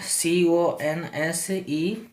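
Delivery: slow, letter by letter; spelling it out letter by letter. Shown as a demonstration. Teacher spells the word slowly for students. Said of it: "spelling क्या है?".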